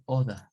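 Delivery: non-rhotic British order. Shown as a demonstration. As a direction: order with the R dropped, oda. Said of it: "ingleses refinados".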